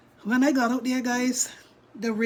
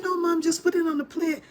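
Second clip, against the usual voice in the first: insistent daughter; 7 semitones higher than usual. Retold or imitated.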